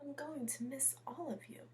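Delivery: soft, sighing whisper of a sad teacher. A narrator's reading. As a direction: breathe the words out with a sigh. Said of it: "She sighed as she called out".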